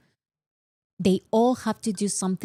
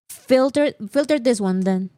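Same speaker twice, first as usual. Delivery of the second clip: mocking filter; 4 semitones higher, 4 dB louder than usual. Mocking YouTube's bot filtering.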